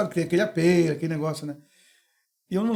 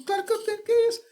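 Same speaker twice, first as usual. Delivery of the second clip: high mock protest; faster than usual. Friend's surprised reply retold.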